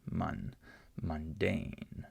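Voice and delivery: "mundane" with a light but full MUN; unstressed first syllable. Shown as a demonstration. Teacher shows the weaker syllable, "mun" unstressed in "mundane". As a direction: keep "mun" light before DANE. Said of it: "not the syllable that has the most sound".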